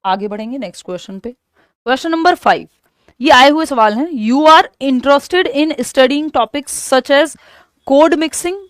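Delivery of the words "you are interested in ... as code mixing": reading the question. Acted. Reads question aloud.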